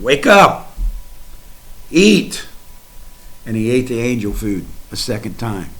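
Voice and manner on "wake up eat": higher, louder wake-up call; rousing call. Retold or imitated. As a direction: shake him awake with your voice. Angel rouses sleeping Elijah.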